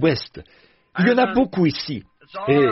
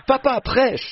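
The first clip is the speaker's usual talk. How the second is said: appel d'enfant mimé, très aigu, pas plus fort; cri d'enfant imité; 9 semitones higher, slower than usual. Retold or imitated. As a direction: imite le petit-fils qui crie, voix haute. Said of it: "il crie". (petit-fils qui appelle son grand-père en criant, cri aigu mimé)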